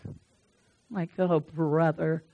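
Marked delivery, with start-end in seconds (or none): 1.2-2.2 slow, lower weary dismissal; retold exasperation. Preacher reacting to a friend's excuse, retold exasperation. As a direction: drag it out in mild disbelief.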